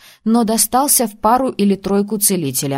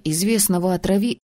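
cut off mid word. Acted. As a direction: break off mid word, then oops. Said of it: "Тор оборвал себя на полуслове".

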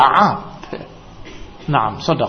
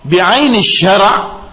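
each Arabic word stretched out very slowly; slow Arabic quote; 3 semitones higher, 4 dB louder, much slower than usual. Retold or imitated. Quoting Ibn Uthaymin to the audience, very slow and weighty. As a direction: recite the scholar's words deliberately, word by word. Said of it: "kata Syekh Ibn Uthaymin".

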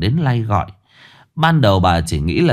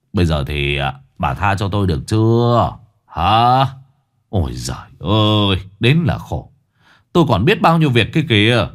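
grumbling husband. Acted.

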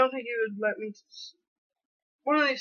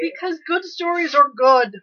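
excited; 7 semitones higher, 7 dB louder, slower than usual. Real, not acted. Insisting friend watch sad movies.

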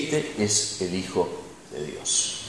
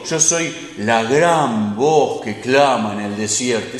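mock grandiose; slower than usual. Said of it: "No es que dijo".

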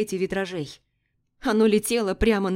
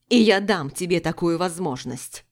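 growled; 4 dB louder than usual. Acted. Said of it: "прорычал Дарион".

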